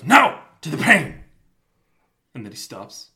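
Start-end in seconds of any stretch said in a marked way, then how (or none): 0.0-1.2 loud, hammed-up defiant cry; mock defiant shout. Friend reenacting Wesley's counter-challenge, shouted in mock defiance. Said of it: "Wesley goes".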